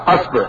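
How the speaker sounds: أصبع said "asbi'", a then i; fatha, then kasra. Shown as a demonstration. Teacher showing fatha forms, أصبع as "asbi'". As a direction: say أصبع with a on hamza, i on baa. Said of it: "ثم نأتي بفتح الهمزة".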